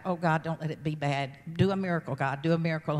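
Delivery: low, understated retold plea to God; begging. Mother retells praying for her daughter with cancer, subdued begging. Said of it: "just begging God".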